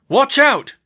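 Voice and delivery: high, full-force shout; urgent, loud alarm; yelled warning. Acted. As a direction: yell a sudden warning. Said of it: "George yelled".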